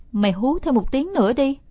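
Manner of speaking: pleading. Acted. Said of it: "tôi đứng giữa nhà năn nỉ".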